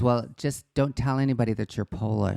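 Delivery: put-on mother in a Polish accent; light Polish accent, mother's voice. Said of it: "the best Polish accent I've ever heard".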